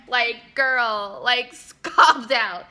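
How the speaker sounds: "calm down" through real laughter; laughing. Real, not acted. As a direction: laugh it out, amused. Mocking girl who shuts down compliment.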